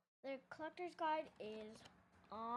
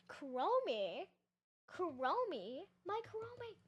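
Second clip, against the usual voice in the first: calling out; 5 semitones higher, 6 dB louder, much slower than usual. Pretend. Calling out to toy.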